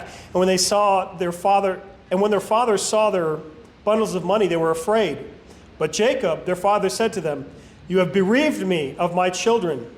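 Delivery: even, deliberate reading with lightly weighted key words; scripture reading. A narrator's reading. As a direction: read Bible narrative aloud in measured phrases. Reads scripture aloud.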